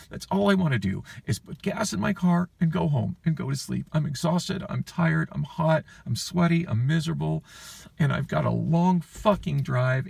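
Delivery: high-pitched, worn-out venting; exasperated pleading. Retold or imitated. Exhausted customer begging banker to let them get home, exasperated. Retold plea to just go home.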